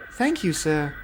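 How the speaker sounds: a lightly voiced pleased young engine. A narrator's reading. Rebecca thanking Sir Topham Hatt, pleased. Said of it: "said Rebecca, pleased".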